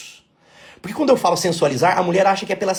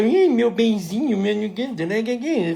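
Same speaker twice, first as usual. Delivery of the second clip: slow, syrupy lovers' cooing, higher; mushy sweet talk; 4 semitones higher, slower than usual. Retold or imitated. New couple cooing at each other, mock mushy. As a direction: drip honey on every word. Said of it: "Fica aquela coisa melosa".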